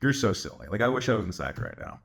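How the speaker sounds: low, affectionate teasing; amused, low-pitched fondness; playful teasing. Retold or imitated. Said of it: "I was smiling. I was laughing".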